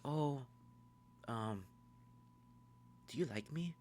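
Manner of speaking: high, soft girlish imitation; Nikki. Nikki asks Bear if he likes her, high hesitant imitation. Acts Nikki's shy approach.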